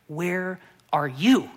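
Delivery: slow, tender "Where are you?" drawn out; slow searching call. Acted. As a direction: call out slowly, seeking them.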